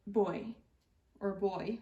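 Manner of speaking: put-on "boy" with an oi sound, the broad way of saying buy; buy turned into "boy"; broad Australian vowel. Shown as a demonstration. Presenter repeats the broad Australian buy, oi sound in "boy". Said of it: "pronounced with an oi sound".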